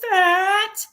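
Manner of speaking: high, slow, pitiful mock question; mock insecure sister. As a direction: play the sister fishing for reassurance, up high and slow. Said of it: "She would say".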